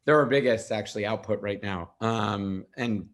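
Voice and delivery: hoarse, fading voice; losing voice. Real, not acted. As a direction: voice giving out, throat catching. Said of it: "sorry, I'm losing my voice here".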